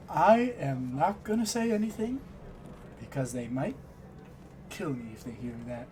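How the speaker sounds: playful, fading to a hush; joking tone. Acted. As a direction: joke about being killed. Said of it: "he says in a joking tone".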